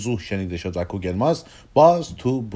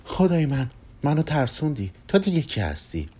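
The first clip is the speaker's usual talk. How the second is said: mildly startled, higher at first; startled surprise; 5 semitones higher than usual. Acted. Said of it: "اما با تعجب برگشت و گفت".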